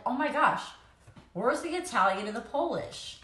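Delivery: retold surprise. Woman retelling her test reaction, mildly astonished. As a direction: replay being taken aback.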